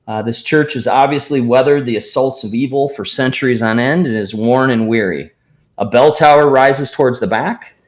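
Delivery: measured read-aloud scene description; game master's scene reading. A narrator's reading. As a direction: set the scene, reading it out with deliberate phrasing. Reads boxed scene description.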